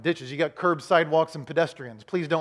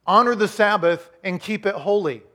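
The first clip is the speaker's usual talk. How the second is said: firm, raised voice for the commandment; commanding quote; 3 semitones higher, 4 dB louder than usual. Retold or imitated. Pastor quoting God's command, firm and loud. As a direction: proclaim it with authority. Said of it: "He said".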